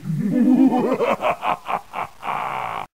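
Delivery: long mad-villain laugh; evil laugh. Acted. Villain gloats over his polar plan, maniacal laugh. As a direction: laugh maniacally, falling at the end.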